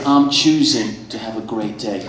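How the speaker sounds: slow, airy zen voice, lightly done; drawn-out serene yoga instructor impression; mock yoga guy. Comic imitates yoga guy telling barista about his day, slow and serene. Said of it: "He said".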